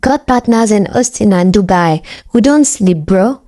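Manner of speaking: put-on a light casual American accent. Femi practicing in the mirror, light American accent. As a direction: drop into a swaggering American accent. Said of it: "Then he dropped an American accent".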